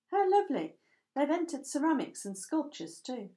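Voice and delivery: high, loud burst of delight that settles down; delighted exclamation. Acted. Ellie spotting the pottery tables, high and loud with delight. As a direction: gush over the ceramics.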